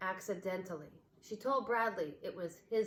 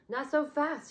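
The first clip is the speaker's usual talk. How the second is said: higher, louder mock warning; playful stop; 8 semitones higher, 6 dB louder than usual. A narrator's reading. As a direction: hold them back with a grin. Boy stops greedy toys.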